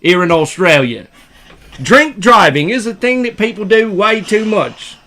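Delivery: put-on lightly done Australian accent; earnest talk in a put-on Australian accent. Australian lecturing on drink driving, lightly done accent. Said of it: "Now do an Australian one".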